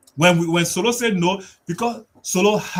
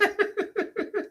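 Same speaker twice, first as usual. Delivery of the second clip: high laugh; 6 dB quieter than usual. Real, not acted. Laughs after impression.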